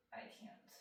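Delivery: small whispered plea. Retold or imitated. Retold desperate kid in class.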